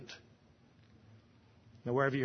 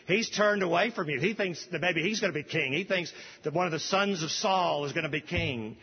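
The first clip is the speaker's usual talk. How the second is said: scheming servant; 4 semitones higher than usual. Acted. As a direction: play the lying servant telling tales. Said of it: "Ziba ... said".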